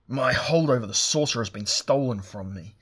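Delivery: loud, raging outburst, pitch pushed up; furious roar. Acted. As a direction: roar it out in fury at the thief. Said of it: "he roared".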